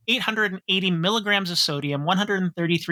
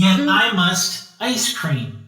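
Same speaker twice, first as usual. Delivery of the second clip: put-on computer child voice; 5 dB louder, much slower than usual. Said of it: "my kid was my computer".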